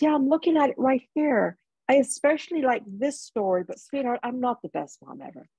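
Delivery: voicing her mother. Lucid mother voiced in story.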